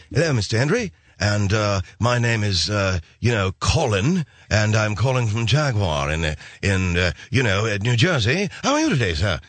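lightly put-on English accent; a hint of a British caller. The Jaguar caller Colin greets the customer in a mild English accent. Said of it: "guy with the English accent".

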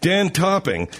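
mock his way of saying it; mocking imitation. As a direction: tease him by echoing the name. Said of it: "Yeah, I'm mocking you".

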